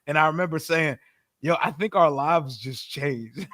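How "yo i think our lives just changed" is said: mock dramatic. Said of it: "It was some dramatic shit".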